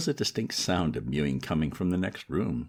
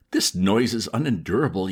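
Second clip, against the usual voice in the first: loud, higher outburst over the din; yelled complaint; 4 semitones higher, 6 dB louder than usual. Acted. Old man yelling over the cats' racket, loudly. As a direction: shout to be heard over the cats. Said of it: "yelled Sir Roderick".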